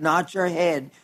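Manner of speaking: soft repeat. Shown as a demonstration. Preacher echoing his point to the congregation, softly. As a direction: let "not your head" fall away softly.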